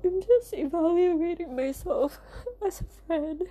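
teary half laugh; laughing through tears; crying through a laugh. Real, not acted. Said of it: "I just feel sad and emotional right now".

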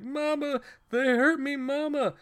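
hammed-up high-pitched wail to mama; pissed-off mama's boy. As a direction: cry out like an overgrown child tattling. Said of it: "all pissed off".

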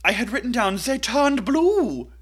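barely holding back a laugh; amused. Real, not acted. Laughing at her own note.

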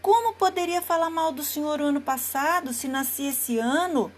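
timid little lamb protesting; innocent lamb. Acted. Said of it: "confundido pela voz da inocência". (cordeirinho inocente)

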